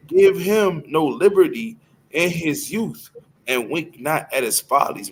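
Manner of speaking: slow, weighty verse reading; scripture reading. Acted. Reads scripture aloud.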